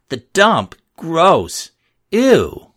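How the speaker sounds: high, loud squeals of disgust; disgusted girls. A narrator's reading. Girls mocking the poor kids, squealing in disgust. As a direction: shriek it like a snooty girl.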